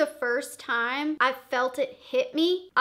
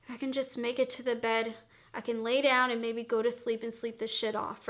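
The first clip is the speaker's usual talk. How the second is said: inner thought, quiet; 3 semitones lower, 7 dB quieter, faster than usual. Retold or imitated. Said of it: "I was thinking to myself".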